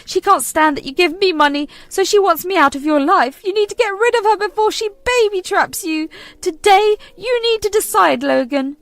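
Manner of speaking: high, loud venomous mother; furious demand. Acted. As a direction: spit out the ultimatum.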